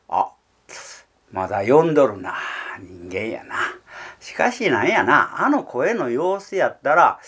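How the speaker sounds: lightly voiced heron, slow and relieved; the heron, slow and satisfied; heron talking to itself. (鷺の独り言、ゆっくり安心して)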